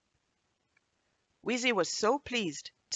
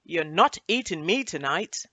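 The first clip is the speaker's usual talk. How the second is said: cheeky biscuit voice; 7 dB louder than usual. Acted. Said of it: "She zoomed off".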